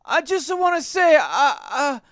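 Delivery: high, loud Italian plumber voice; Mario. Pretend. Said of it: "it's me, Mario".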